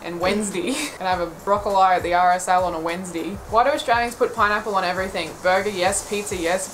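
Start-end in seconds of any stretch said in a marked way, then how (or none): 0.2-0.7 "Wednesday" ending in dee; old people's "Wednesday". Retold or imitated. Quoting old people's pronunciation, "Wednesday" as Wenz-dee. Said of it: "Old people say". 2.8-3.3 "Wednesday" with a dee ending; old people's "Wednesday". Retold or imitated. Mock old people's plans at the RSL, "Wednesday" as Wenz-dee. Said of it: "Old people say".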